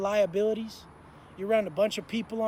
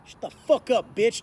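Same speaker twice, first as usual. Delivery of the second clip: loud mock order to shut up; forceful retold command; acted cop outburst; 6 dB louder than usual. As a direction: imitate a cop laying down the law. Acts cop bursting out at prisoner.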